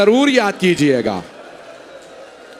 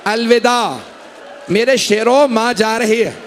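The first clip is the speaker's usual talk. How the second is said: mourning recitation; 3 semitones higher than usual. Acted. A reciter describing a mother's farewell to mourners, keening recital. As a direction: lift the voice into a lament.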